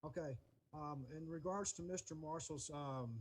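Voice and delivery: very soft, hesitant start. Real, not acted. Neighbor starting his reply to commissioners, soft. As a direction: begin the reply well under normal volume.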